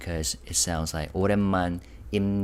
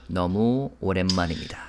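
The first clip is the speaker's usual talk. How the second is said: imitating a singer; much faster than usual. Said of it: "And then he said".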